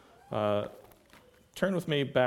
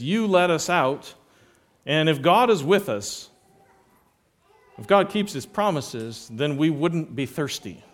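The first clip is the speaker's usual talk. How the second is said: raised, louder mock accusation of grumbling people; accusing complaint; 4 semitones higher, 5 dB louder than usual. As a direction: throw the accusation at Moses, louder and higher. Preacher acts the people's accusation.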